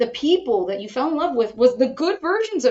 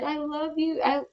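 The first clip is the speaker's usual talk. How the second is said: higher, mock-adoring suitor voice; lovestruck suitor; 3 semitones higher than usual. Courting man woos her over flower arranging, mock adoring. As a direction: gush like a courting boyfriend, lightly mocked. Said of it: "overt show of affection and love".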